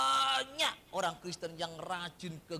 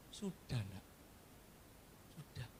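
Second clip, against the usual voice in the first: lower, soft fatherly reply; God answering; 7 semitones lower, 12 dB quieter than usual. Retold or imitated. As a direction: answer like a patient father to a child. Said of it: "Tuhan jawabnya apa?". (Tuhan menjawab dengan suara rendah dan lembut seperti ayah)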